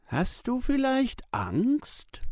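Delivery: slow, high teasing whisper; girl whispering a dare, slow. A narrator's reading. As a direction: breathe it like a sly secret. Tina teasing at the gate.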